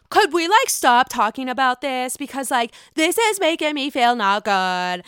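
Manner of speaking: a light mock of a prissy, uncomfortable plea; lightly voiced squeamish request; mocking Whitney. Mocking Whitney asking to change the subject, lightly prissy. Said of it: "all of a sudden she's like".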